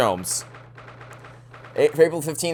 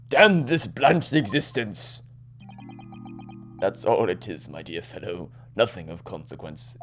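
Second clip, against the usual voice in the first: depressed Sholmes; 5 semitones lower, slower than usual. Acted. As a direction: mourn every word as if all is lost. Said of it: "Depressed Sholmes".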